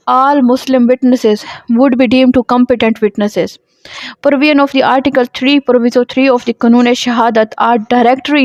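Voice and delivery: reading law text slowly and deliberately; measured dictation pace for students; slow statute reading. Acted. Reads statute text aloud. (धीमे-धीमे क़ानून की इबारत पढ़ना)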